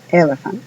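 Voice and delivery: elephant with both E's sounding as E; elephant, E as in Spanish E; English word elephant. Shown as a demonstration. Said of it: "y suenan como E". ("elephant" con E como la E española)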